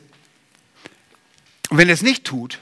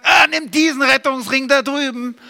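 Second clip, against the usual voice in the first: leisurely mock request; 10 semitones higher than usual. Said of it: "wie ein Ertrinkender, der nicht diskutiert".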